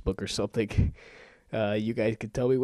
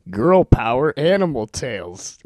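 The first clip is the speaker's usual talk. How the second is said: rapid-fire reading; 3 semitones higher, 6 dB louder than usual. Real, not acted. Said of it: "read from my Netflix instant queue as quickly as I can".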